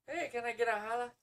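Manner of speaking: high, loud mock shout-out; imitated holler. Acting out a viewer's typed message.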